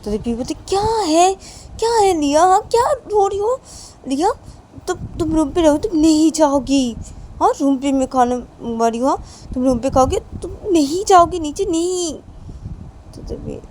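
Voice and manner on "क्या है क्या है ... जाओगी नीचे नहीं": annoyed mother. Acted. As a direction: scold the crying child sharply. Mother snaps at crying daughter. (झुंझलाई माँ की ऊँची, तेज़ डाँट)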